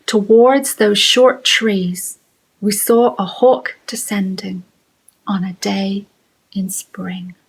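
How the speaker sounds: measured poetry reading, paused at each line; haiku reading. Acted. Teacher reading a spring haiku, measured and spaced out.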